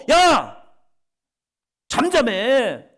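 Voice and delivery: loud, high 야 then a slow stretched 잠잠해; rebuking shout. Acted. The crowd scolding the blind men, an angry slow shout. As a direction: bark them into silence. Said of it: "하면서 꾸짖는데".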